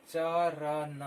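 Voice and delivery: चरण said loudly and clearly; clear loud demo. Shown as a demonstration. Teacher repeating चरण loudly for children. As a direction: announce चरण so every child hears it. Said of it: "बोलने से ही पता चल".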